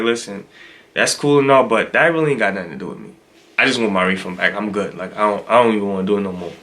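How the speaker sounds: nice but firm. Retold or imitated. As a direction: turn her down politely, keeping it low. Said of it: "I was nice to her".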